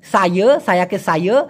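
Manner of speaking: "সায়ে" ending in a rising schwa; colloquial pronunciation. Shown as a demonstration. Teacher showing Malaysians' way, colloquial pronunciation. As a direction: say "সায়ে" with uh for the last a. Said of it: "মালয়েশিয়ানরাও তাই বলে".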